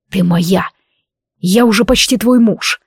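firm, possessive claim; a lightly voiced possessive lover; uncompromising. A narrator's reading. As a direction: lay down the law, no room to argue. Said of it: "бескомпромиссно ответил громовержец".

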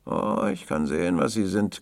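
put-on loud, gasping boy's retort; panting boy. A narrator's reading. Boy sizing up the tramp, panting. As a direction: gasp it out with force. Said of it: "keuchte der Junge".

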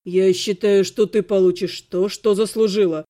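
cold, low verdict; icy. A narrator's reading. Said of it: "Голос Ирги был таким ледяным". (ледяным низким голосом)

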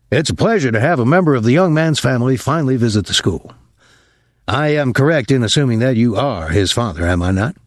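lightly voiced formal, uneasy colonel; a hint of a stiff, embarrassed school colonel; flustered colonel. Colonel receiving a pupil's father, lightly voiced, embarrassed formality.

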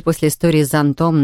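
plain reading voice

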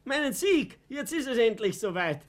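höher, lauter, mit Lachen; triumphierend. Acted. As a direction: Sieg auskosten. Vater verkündet Triumph. (lachend triumphieren)

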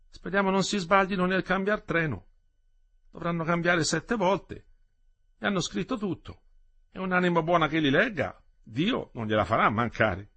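put-on high, hopeful old woman's voice; worried grandmother. Grandmother hoping the children change trains right, high and anxious. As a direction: fret gently and pray they manage.

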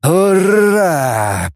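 high, rousing battle cry; joyful war cry; cheering shout. A narrator's reading. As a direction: take up the cheer. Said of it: "подхватил".

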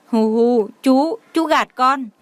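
put-on sobbing, slow and choked, a small boy's voice; child sobbing. A narrator's reading. Little boy sobs to the uncle who lied to him, choked with tears. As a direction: hiccup through tears like a hurt child. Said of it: "nghẹn ngào".

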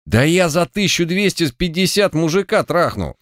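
high-pitched indignant outburst, not shouted. A narrator's reading. Орех objects to the guarantor's price, indignant. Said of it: "возмутился Орех".

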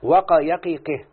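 وقى يقيقه spelled out slowly, each syllable drawn out; teacher slowly reciting وقى يقيقه for the students, deliberate and drawn out; slow deliberate example. Shown as a demonstration. Teacher slowly reads وقى يقيقه aloud to the class. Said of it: "فهو يقول".

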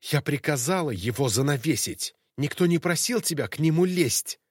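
angry yelling at the maid; shouting. Acted. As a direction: scold her at full voice. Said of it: "пока графиня кричала на неё". (крик графини)

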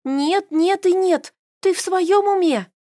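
high, loud, slow emphatic no; vehement refusal. A narrator's reading. Carol refusing her friend's idea, loud and slow. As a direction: refuse hard, hammering each no.

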